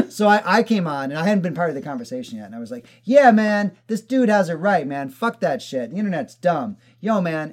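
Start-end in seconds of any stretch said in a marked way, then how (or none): 3.0-7.5 higher, louder mock bro voice; dumbed-down bro. To friend, retelling how he baited the ranter, mock dumb bro. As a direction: play dumb to bait the guy. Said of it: "totally dumbing myself down the way I spoke".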